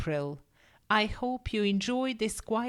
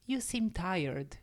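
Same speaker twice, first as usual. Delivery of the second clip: gentle; 3 semitones lower, 4 dB quieter than usual. Acted. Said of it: "she said gently".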